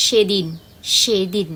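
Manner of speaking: সেদিন with a crisp s, tongue behind the teeth; teacher models the correct s; correct dental s. Shown as a demonstration. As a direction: clean s in সেদিন. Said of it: "একদম ঠিকঠাক উচ্চারণ".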